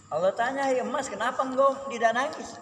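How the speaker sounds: can't hold back laughter telling it; laughing. Real, not acted. Preacher laughing as he voices God asking the gold.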